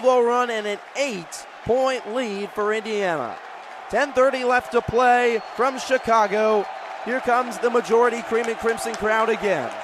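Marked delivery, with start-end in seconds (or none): 3.9-9.7 lifted radio play-by-play; energized call. Real, not acted. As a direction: keep pace with the roaring crowd. Crowd roars, play resumes.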